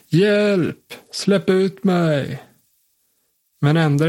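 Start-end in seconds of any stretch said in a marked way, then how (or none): 0.1-2.4 pitched-up cry for help, slowing on the last words; trapped man calls through the lid for help; calling for help. Acted. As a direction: cry out from inside the locked coffin.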